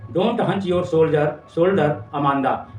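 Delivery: very slow, drawn-out reading of the poem line; slow recital. Shown as a demonstration. Teacher reading mother's scolding to students, very slow. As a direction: spell out the mother's words slowly for the class. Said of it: "वो कहती है".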